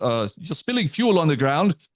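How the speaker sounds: put-on German accent. Retelling what a guy at the gas pump said: German accent. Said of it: "a guy with a German accent says".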